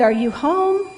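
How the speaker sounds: hollered question from outside; yelled question. A narrator's reading. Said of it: "someone yelled outside".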